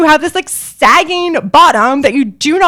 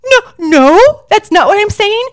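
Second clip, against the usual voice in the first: high, louder, flustered backpedal; flustered denial; 10 semitones higher, 5 dB louder than usual. Retold or imitated. Twenty-three-year-old contestant backpedalling to Tyra Banks, flustered and high. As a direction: scramble to take it back.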